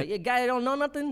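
high, loud excited stranger; mock the fan's mangled title with glee; imitating a fan. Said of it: "but this guy".

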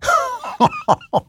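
high, helpless laugh at the absurdity; burst of laughter. Real, not acted. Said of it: "I'm sorry I'm laughing".

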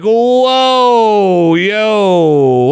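high, loud shocked exclamation. Retold or imitated. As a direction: blurt it out, stunned. Doctors shocked at x-ray.

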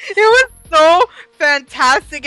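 high, loud gushing; excited anime fan. Real, not acted. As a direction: gush about it, slowly. Gushing over Tormund.

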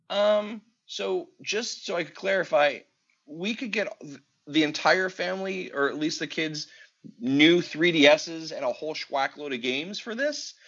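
patiently clarifying as the wife; loving wife. Retold or imitated. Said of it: "she looks at me lovingly".

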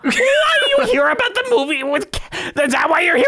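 very high shouted mock line; bad acting. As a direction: scream it like a hammy amateur actor. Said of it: "mocking the reviewer exchange".

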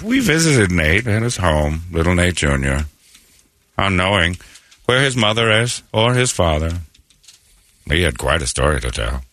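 hint of a Keith Morrison-style narration; lightly mimicking a crime-show host; Dateline narrator. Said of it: "I hope Keith Morrison's still alive".

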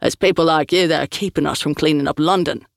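lightly voiced burly thug, a hint of contempt; a touch of sneering tough guy; snake tattoo thug. Tattooed thug blaming the crew, mildly sneering. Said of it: "Snake Tattoo said".

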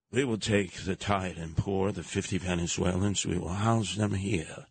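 mock Kennedy. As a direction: lord it over the guests, lightly. Mocking Kennedys' offer.

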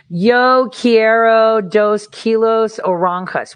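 high, slow, clumsy foreigner's Spanish; bad Spanish accent. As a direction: say Spanish with a heavy wrong accent. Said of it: "with that accent rather than".

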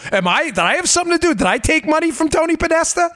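high, mock-alarmed voice of a worried insider; mock panicked Democrat. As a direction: play a flustered politician who just got caught. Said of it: "'cause they're like".

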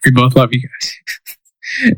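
slowed-down, earnest declaration of love; slow, lingering, half-joking tenderness; slow sincere. Real, not acted. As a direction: drag it out slowly, mock-sincere to the fans. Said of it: "I'm putting it out there".

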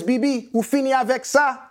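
a father's question put gently in Haitian Creole; father speaking Creole. Retold or imitated. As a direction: voice the dad asking in Haitian Creole. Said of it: "he says to me in Creole".

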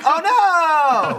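loud, high yell in own voice; just yell it out, drawn out; plain yelling. Shown as a demonstration. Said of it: "me just yelling".

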